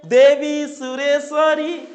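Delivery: slow, measured chanting of the shloka; slow devotional verse recital; slow recitation. Shown as a demonstration. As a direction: recite it slowly like a hymn. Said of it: "কি, কিভাবে পড়বে?".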